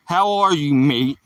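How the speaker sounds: lightly put-on Australian greeting; attempted Australian accent. Streamer reading a viewer's greeting, attempted Australian accent. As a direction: try a casual Aussie lilt. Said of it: "that sounds like Australian".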